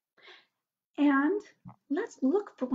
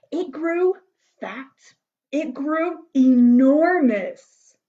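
animated storybook reading with big swelling emphasis; story narration; 3 semitones higher, 6 dB louder, slower than usual. A narrator's reading. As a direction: build the wonder for small listeners.

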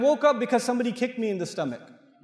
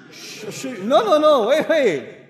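higher, louder rushed "no, no, no"; flustered placating; 5 semitones higher, 6 dB louder, slower than usual. Acted. Backing down before the angry brother, flustered loud pleading. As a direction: scramble to calm him down.

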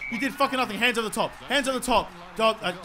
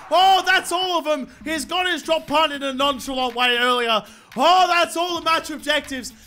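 raised, higher-pitched gloating cheer; excited triumph; elated relief; 4 semitones higher, 3 dB louder than usual. Real, not acted. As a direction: celebrate ticking off every goal. Celebrates completing all objectives.

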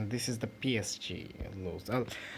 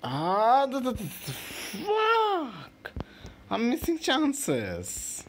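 much higher, loud, slow furious outburst; frustrated yell; 7 dB louder, much slower than usual. Real, not acted. Gamer raging at his own missed chance, furious yell. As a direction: explode at missing another chance.

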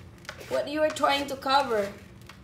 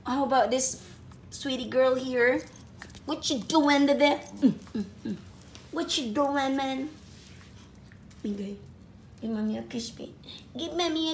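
pet talk. Real, not acted. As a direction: coo at the little one. Mother cooing at her pet.

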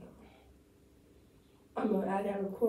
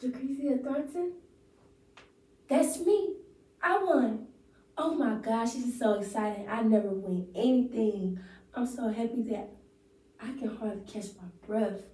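lightly acted overjoyed winner; monologue take. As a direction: play a thrilled winner reading her monologue. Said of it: "So, my monologue is".

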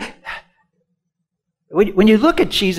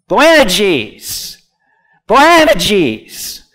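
Boanerges, AN hit hard, falling after; emphatic chant-along Boanerges, stress on AN; stress on right syllable; 3 semitones higher, 5 dB louder, much slower than usual. Shown as a demonstration. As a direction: drill Boanerges with a punched second syllable. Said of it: "the emphasis on the right syllable".

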